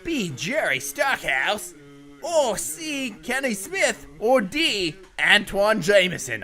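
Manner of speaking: light mock Aussie quiz host; a touch of Crocodile Dundee twang; Australian accent. Reading quiz options in a light Australian accent for friend.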